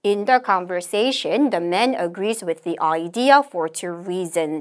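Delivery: slow, measured English recitation; model read-aloud. Shown as a demonstration. Teacher models the conversation summary, slow deliberate reading. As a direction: read it out slowly, phrase by phrase.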